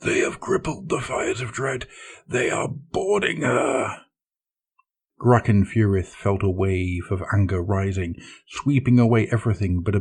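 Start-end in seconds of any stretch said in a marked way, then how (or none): 0.0-4.0 high, panicked report. Acted. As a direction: cry it out in a panic. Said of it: "another bridge servant called in a panicked voice".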